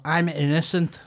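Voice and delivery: hammy fake Irish plea of innocence; terrible Irish accent. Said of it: "That's a terrible Irish accent".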